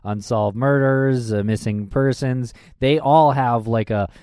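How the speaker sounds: mock-baffled protest; sarcastic disbelief. Cohost feigning bafflement at poor police communication, sarcastic. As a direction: act as if this is news to you, lightly sarcastic. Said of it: "That was heavily draped in sarcasm".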